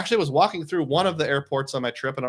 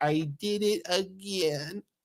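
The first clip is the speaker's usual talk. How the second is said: put-on small, soft little boy voice; 5 semitones higher, 7 dB quieter than usual. The speaker recalls dropping their ice cream twice at a hotel: little boy voice. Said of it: "And in a little boy voice".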